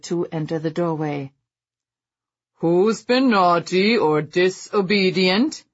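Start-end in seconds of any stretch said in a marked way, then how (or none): 2.6-5.6 booming Father Christmas call; shouting. Acted. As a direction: call out jovially to the room. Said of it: "he shouted".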